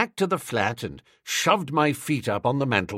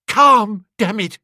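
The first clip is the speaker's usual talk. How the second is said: frantic outburst; 8 semitones higher, 8 dB louder, slower than usual. A narrator's reading. Bingo frantic, upsetting furniture.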